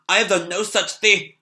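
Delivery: put-on a touch of a defiant child; indignant boy. C L protests to the demon.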